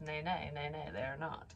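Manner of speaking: ordinary talk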